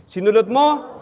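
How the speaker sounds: a touch of anger on "Sinulot mo", read as if facing an enemy; angry reading. Shown as a demonstration. Rival vendor reading to the other vendor, mildly angry. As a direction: read it with some heat, picturing a rival. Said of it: "with feelings, with galit".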